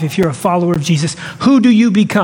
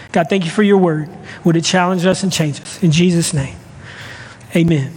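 low-pitched, unhurried prayer; praying; 4 semitones lower than usual. Real, not acted. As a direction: pray simply to God, voice lowered. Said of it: "let me pray real quick".

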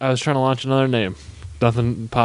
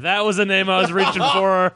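ordinary delivery

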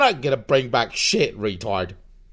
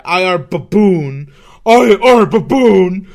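dumb baboon voice; 8 dB louder than usual. Pretend. Playing a baboon.

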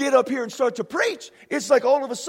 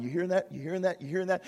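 Jesus to Father; 6 semitones lower, 4 dB quieter, much faster than usual. Acted. Voices Jesus speaking to the Father.

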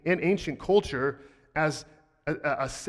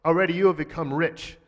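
slightly louder, disapproving read; negative tone; 3 dB louder than usual. Shown as a demonstration. Pastor showing Paul's negative tone to the church. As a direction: say it with a touch of reproach. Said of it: "saying this in a very negative tone".

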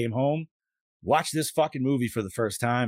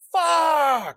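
high, loud exclamation of dismay; realizing he forgot his trunks; retold shout; 7 dB louder than usual. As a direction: blurt it out as it dawns on you. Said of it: "I'm like".

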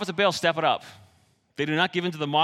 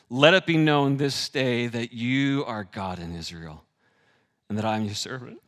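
earnest prayer; 4 semitones lower than usual. Retold or imitated. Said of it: "he prays this powerful prayer".

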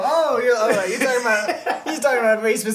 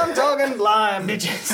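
put-on Texas accent; 3 semitones higher, slower than usual. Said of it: "In the Texas accent".

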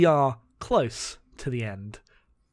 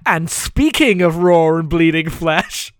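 dramatic monologue reading; 4 dB louder than usual. Acted. Reading Claudio's stupid monologue to co-host, mock-solemn, building loud. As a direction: read it as a self-serious comic-book monologue.

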